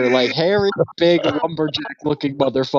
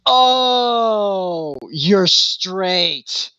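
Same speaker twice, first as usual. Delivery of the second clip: whispered realization; 4 semitones higher, much slower than usual. Retold or imitated. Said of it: "and he goes".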